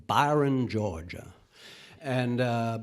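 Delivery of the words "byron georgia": lightly imitated Deep South accent. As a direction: say the town as a proud Southerner would. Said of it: "as he would say".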